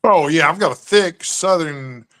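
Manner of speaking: ordinary delivery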